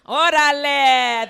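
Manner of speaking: loud, slowly stretched Órale; drawn-out exclamation. Acted. Latina showing off her favorite phrase, drawn-out cry. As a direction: draw the last vowel out proudly.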